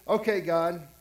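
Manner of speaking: Jonah, fed up, telling God to take his life, mock angry; ticked-off plea. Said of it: "He's so ticked off".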